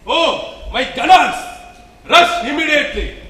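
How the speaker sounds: urgent calling. Acted. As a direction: call out for help in a hurry. Shiva urgently summons his attendants.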